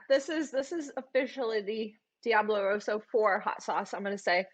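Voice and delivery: slurring from a burning mouth; slurred speech. Real, not acted. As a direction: let the words slur, tongue on fire. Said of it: "like, slurring my words".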